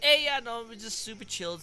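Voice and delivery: imitating a laid-back chill voice. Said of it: "You literally go".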